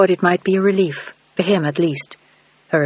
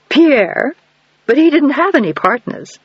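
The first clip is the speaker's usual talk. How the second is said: confused countess; 8 semitones higher, 4 dB louder, slower than usual. A narrator's reading. Margaret confused on phone.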